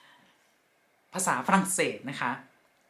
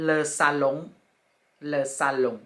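slow teaching; much slower than usual. Shown as a demonstration. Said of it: "อ่านว่า".

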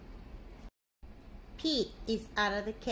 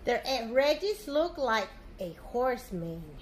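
slow captain; slower than usual. Acted. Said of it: "says Captain Joe".

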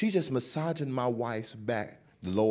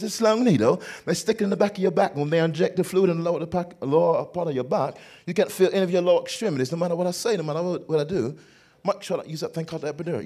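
fast, higher London wife voice; mimicked British accent; 3 semitones higher, faster than usual. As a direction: explain rapidly in a put-on British accent. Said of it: "she talked with this accent just like this".

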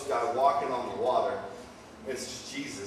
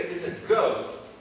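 high, louder, drawn-out fright; mock freak-out; 5 semitones higher, 4 dB louder, slower than usual. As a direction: play scared disciples, stretching the last word. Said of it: "this is what they say".

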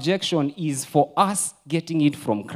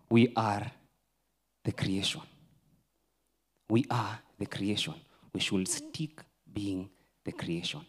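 soft and lower, letting each word land; hushed emphasis; 4 semitones lower, 6 dB quieter than usual. Real, not acted. Preacher quietly driving home that we are the creation, hushed. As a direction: drop the voice to make them lean in.

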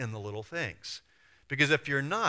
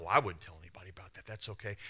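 fast, lower, glib brush-off; quick lightly voiced fake promise; mock reassurance; 6 semitones lower, 5 dB quieter, faster than usual. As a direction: toss it off like a careless gossip. Mocking a gossiping promise.

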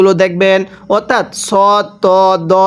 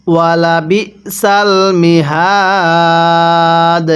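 slow, drawn-out tajweed chant; Quran recitation; much slower than usual. Shown as a demonstration. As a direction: recite it slowly, stretching the vowels. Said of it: "তাহলে কিভাবে পড়ব?". (ধীরে টেনে কুরআন তিলাওয়াত)

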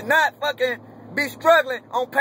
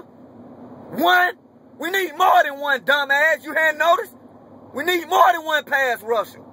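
incredulous; 5 semitones higher than usual. Real, not acted. Mocking incredulous rant.

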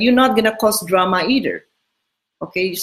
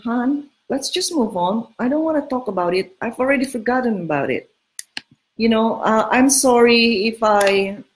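breezy brush-off; 2 semitones higher than usual. Shown as a demonstration. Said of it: "you just say".

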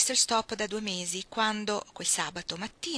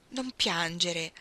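soothing; much slower than usual. Acted. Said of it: "scoppiò in lacrime".

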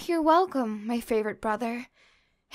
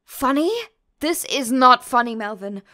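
annoyed; 5 dB louder than usual. Acted. Scolding brothers who sneak in.

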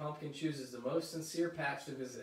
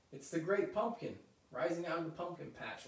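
higher, excited announcement; excited yell; 4 semitones higher than usual. Acted. Linus seeing a shadow rise from the patch, excited yell. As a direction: cry out in thrilled amazement. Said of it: "Linus yells".

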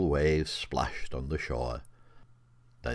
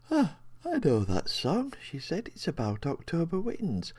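put-on raised, childlike little girl; 11 semitones higher than usual. A narrator's reading. Sleepy little girl tells the voice she knows the song. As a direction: voice her like a sleepy small child.

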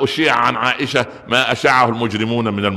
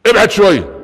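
higher, louder brusque command; hammed-up bark; mock order; 8 semitones higher, 7 dB louder than usual. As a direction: tell him to back off. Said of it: "وبعدين بقى".

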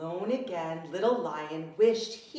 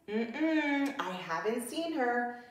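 trumpeting; 4 semitones higher than usual. Acted. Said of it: "she trumpeted".

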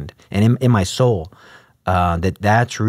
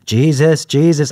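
louder, more emphatic; 3 semitones higher, 3 dB louder, slower than usual. Retold or imitated. Student in the chapel, insisting against doubt, emphatic. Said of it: "I was even louder, more emphatic".

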